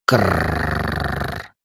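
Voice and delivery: low, soft creature clicking rattle; Kraken clicking. Acted. The Kraken answers the father with a clicking rattle. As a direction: rattle it out like a sea monster. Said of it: "закликотал Кракен".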